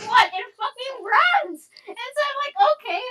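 high, wailing mock sob; hammed-up weepy rant; mock crying. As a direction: ham up a tearful breakdown. Retelling rage, crying sounds heard.

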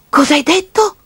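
high-pitched disbelief; can't believe what you just heard; astonished. Acted. Child to talking piggy bank, astonished.

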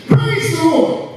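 high, drawn-out imitated yell; yelled proclamation. Old woman on her porch every morning, imitated proclamation. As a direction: proclaim it high and slow, as she would. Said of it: "she yells out a proclamation".

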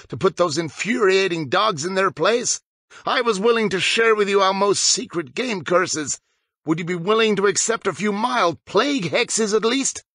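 lightly voiced, scheming; a hint of gleeful menace; sneering vampire boy. A narrator's reading. Harding tempting the boys with curses, sly.

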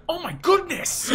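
high, loud, laughing mock gasp; Luigi without accent. Voicing Luigi dropping his accent, a high laughing gasp. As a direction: squeal like a shocked Luigi. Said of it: "He loses his accent".

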